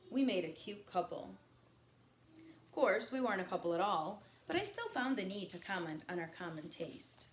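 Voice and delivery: reading a novel aloud to the class; lightly paced read-aloud, each line set down; reading a novel to students; story narration. A narrator's reading. Teacher reads novel aloud to class.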